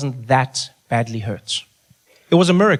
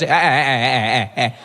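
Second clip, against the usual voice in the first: 1 mock hushing. Cutting off imagined parent.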